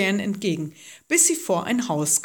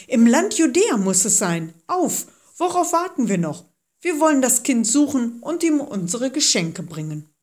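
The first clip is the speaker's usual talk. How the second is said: louder, keen chorus of agreement; eager agreement; 4 semitones higher, 3 dB louder than usual. Acted. The others chime in, eagerly agreeing, louder. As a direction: jump in, eager to set off. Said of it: "fielen die anderen ein".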